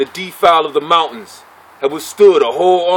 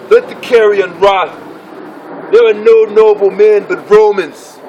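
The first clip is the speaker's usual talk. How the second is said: stern pronouncement; 3 semitones higher than usual. Acted. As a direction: declaim it as a stern Roman praetor. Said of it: "sternly said".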